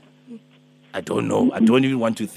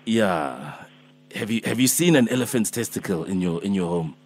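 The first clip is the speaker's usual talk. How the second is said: put-on Alpheus, old man. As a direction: play a gentle old healer calling early, only a hint of age. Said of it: "I'm Alpheus, I'm Alpheus".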